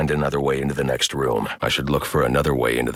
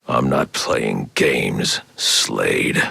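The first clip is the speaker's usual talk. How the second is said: slow menace; 4 semitones lower, much slower than usual. Acted. Threatening Slade.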